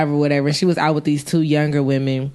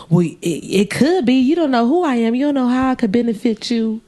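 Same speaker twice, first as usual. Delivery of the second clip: mock pushy passenger; 5 semitones higher than usual. Woman defends herself, put-on voice.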